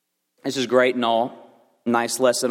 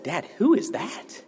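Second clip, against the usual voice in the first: put-on higher, small kid voice asking; child's voice; 9 semitones higher than usual. Son asking his dad in the car, higher child voice. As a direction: play the shocked young son.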